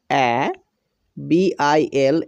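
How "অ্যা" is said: "অ্যা" as an open "a" as in "cat"; letter-sound demo. Shown as a demonstration. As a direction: sound out "অ্যা" on its own, like a teacher. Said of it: "লেটারটির উচ্চারণ করতে হবে".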